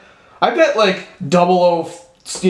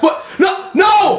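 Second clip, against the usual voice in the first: hammed-up frustrated yell; mock outrage; 13 semitones higher, slower than usual. Spy scene, Bond did it again.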